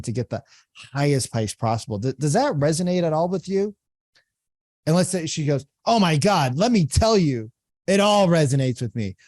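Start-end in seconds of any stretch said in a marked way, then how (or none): 5.8-9.2 a bit louder, gushing; mock eager prospect. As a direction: act the relieved prospect.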